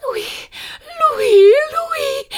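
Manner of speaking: high, loud joyful calls; excited calling. A narrator's reading. Prue rushing in, calling out in high delight. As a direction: cry out like a strange marsh bird. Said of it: "azt kiáltozta".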